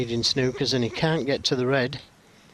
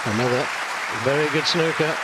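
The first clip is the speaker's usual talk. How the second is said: higher and louder in admiration; impressed; 4 semitones higher, 4 dB louder than usual. Real, not acted. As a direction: praise the shot with a lift. Commentator praises the shot.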